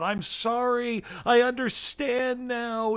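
high, slow pleading apology; high, slow mock cry of terror; mock terrified cry. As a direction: plead like a man terrified before God. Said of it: "shows him crying out".

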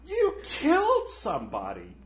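lightly voiced ghost pointing the finger; accusing ghost. Ghost reminding the murderer of his crime, lightly accusing. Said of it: "He's like".

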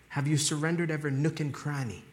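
accidental hint of British accent; slight British accent. Real, not acted. Preacher asking about full surrender, slight British accent. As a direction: let a touch of British slip in. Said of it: "I don't know why I sounded British there".

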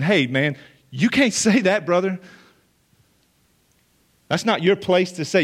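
offended challenge, rising on you can't say that; indignant Pharisee. Shown as a demonstration. Preacher voicing the offended guests at the table, indignant. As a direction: scold him like an affronted dinner guest. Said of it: "The way you read that is".

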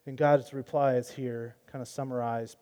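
ordinary talk, nothing marked

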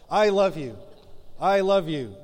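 playful lovey-dovey repeat; hammed-up tender I love you. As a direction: ham up a sweet I love you. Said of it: "without laughing at myself".

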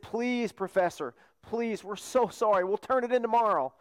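imitating apologetic pupils; mock pleading. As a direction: plead like students asking for an extension. Students beg professor for more time.

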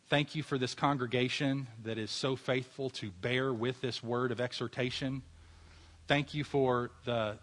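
earnest pastoral prayer. Acted. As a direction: pray over the church with reverence. Closing prayer for congregation.

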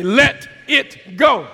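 loud, slow call for repetition; measured preacher's prompt; congregational call. Shown as a demonstration. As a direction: say it loudly, one word at a time. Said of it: "Come on, say it with me".

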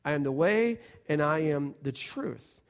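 "and" joining both claims; "I am the way and I am the truth", with a clear "and"; linked with and. Shown as a demonstration. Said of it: "you have to read that with an and".

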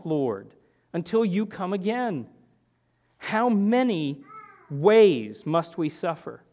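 anguished lament to the Lord; frustrated cry. Retold or imitated. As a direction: cry out to God, worn out and fed up. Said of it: "you just get frustrated. And you say".

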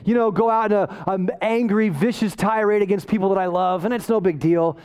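breezy shrug-it-off imitation; casual mock excuse-making; mock indifference. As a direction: make excuses as if it hardly matters. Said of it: "Paul isn't indifferent about his own sin".

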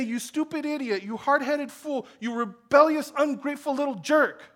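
mock insults. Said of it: "The father doesn't say".

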